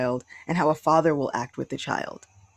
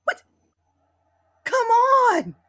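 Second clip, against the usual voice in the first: a sudden, much higher, far louder crying shout; outcry; 6 dB louder, slower than usual. Real, not acted. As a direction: cry out in disbelief. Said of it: "I'm like".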